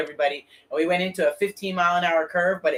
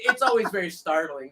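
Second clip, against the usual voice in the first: ordinary talk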